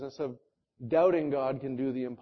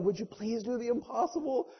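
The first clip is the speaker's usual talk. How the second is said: humble prayer; 5 semitones higher, 6 dB quieter than usual. Pretend. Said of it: "we need to be on our knees going".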